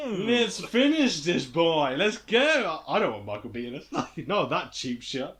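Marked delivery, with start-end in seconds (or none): 0.1-2.8 mock rallying cry. Golfer wanting the remaining holes played, mock rallying. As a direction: egg a mate on to play.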